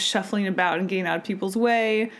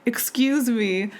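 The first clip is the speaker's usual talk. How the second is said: slow excuse me; slower than usual. Retold or imitated. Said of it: "this guy turns around and he says".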